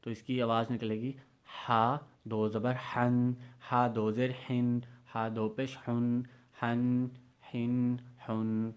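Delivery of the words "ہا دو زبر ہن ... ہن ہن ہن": ہن breathed from the middle of the throat; light throaty ہا recitation. Shown as a demonstration. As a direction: push ہن out from mid-throat, slowly. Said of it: "آواز نکلے وسط حلق سے".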